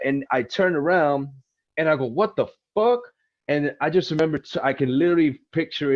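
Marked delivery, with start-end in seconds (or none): 2.1-3.0 shocked. Retold or imitated. Sudden shock at screeching tires.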